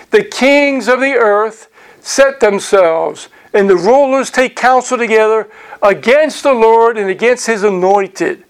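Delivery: deliberate, measured scripture reading; slow reading. Real, not acted. Teacher reading of kings against the Lord, slow reading. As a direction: stretch out the verse as you read aloud. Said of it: "try to read it slowly".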